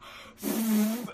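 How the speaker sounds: mimed sharp finger whistle; mock whistle blast; imitated whistle. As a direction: blow out a demonstration whistle noise. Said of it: "let out the sharpest whistle ever".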